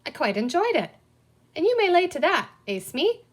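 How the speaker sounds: high, loud hearty pirate voice; pirate boasting cheerfully to his mate; jolly pirate. A narrator's reading. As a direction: play it up as a merry old pirate.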